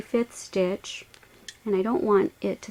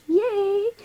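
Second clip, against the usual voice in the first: excited; 12 semitones higher than usual. Real, not acted. Celebrating finished step.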